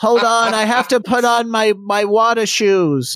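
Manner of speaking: put-on old man voice, very high, very slow, drawn out. Retelling a friend's reply at the water, imitating Dan in an old Jewish man accent. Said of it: "what's with like the old Jewish man accent?".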